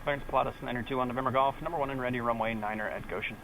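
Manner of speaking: pilot radio readback; clipped radio call over headset. Real, not acted.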